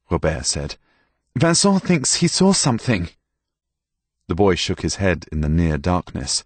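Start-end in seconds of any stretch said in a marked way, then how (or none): 1.3-3.1 raised, insistent order; a master used to obedience; commanding master. A narrator's reading. Master urges stable boy.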